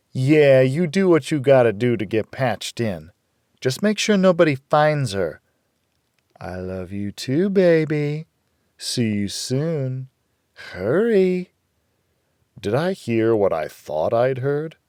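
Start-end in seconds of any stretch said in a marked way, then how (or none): 0.1-11.5 higher woman's voice, urgent and close; woman on the phone. A narrator's reading. Rita urging her man on the phone, higher voice. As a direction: rush him along, lovingly.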